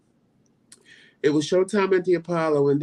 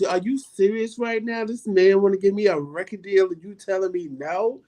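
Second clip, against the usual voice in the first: higher, outraged disbelief; incredulous teen protest; 4 semitones higher than usual. Retold or imitated. Teen to mother over record deal, in outraged disbelief. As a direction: retell it as a stunned teenager.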